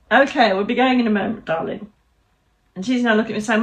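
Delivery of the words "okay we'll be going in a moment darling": posh voice. Pretend. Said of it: "why are you using that posh voice?".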